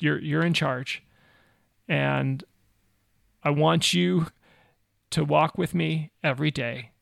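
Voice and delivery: retold prayer in halting phrases with long pauses; simple prayer. Missionary leading a young man phrase by phrase, simple prayer. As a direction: lead someone gently through a prayer, pausing between phrases. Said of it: "led him through a really simple prayer".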